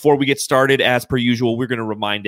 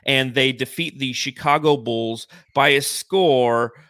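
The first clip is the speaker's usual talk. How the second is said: announcer; 3 semitones higher than usual. Acted. Game recap read over music.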